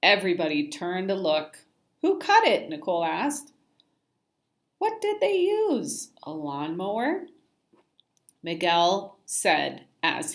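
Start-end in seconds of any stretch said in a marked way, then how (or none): 2.0-2.7 high, loud, taunting; mocking kid. A narrator's reading. Kid mocking Simon's haircut, high and taunting. 4.8-7.3 high, jeering jab; mocking kid. A narrator's reading. Kid jeering at Simon's hair, high and mocking.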